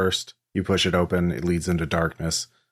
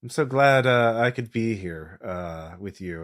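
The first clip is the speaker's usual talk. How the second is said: delighted party guest greeting, pitched up then fading; Emmeline Fitzroy; 2 semitones higher, slower than usual. Acted. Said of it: "She says".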